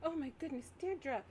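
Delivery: high-pitched shocked teacher; alarmed concern. Acted. Teacher noticing a student is hurt, alarmed. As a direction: gasp the student's name in alarm.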